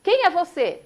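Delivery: high, loud call into the mountains; startled boy yelling who's there. Retold or imitated. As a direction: shout the question out to the unseen voice. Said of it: "e fala".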